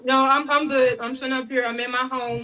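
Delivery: eating while talking; talking through a mouthful; mouth full. Real, not acted. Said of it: "don't talk with your mouth full too".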